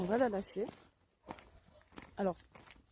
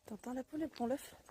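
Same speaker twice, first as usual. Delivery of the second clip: talking to a dog; 14 dB quieter, faster than usual. Real, not acted. Softly asking the puppy.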